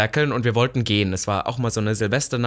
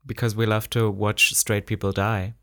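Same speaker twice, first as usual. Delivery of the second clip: quoted punchline; 3 semitones lower, slower than usual. Retold or imitated. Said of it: "Das ist von Trixie und Katja geklaut".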